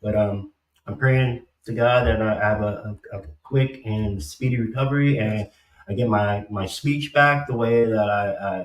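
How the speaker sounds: speaking through a numb mouth; cotton in mouth. Real, not acted. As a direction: talk like cotton is in your mouth. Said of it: "I sound like I got cotton in my mouth".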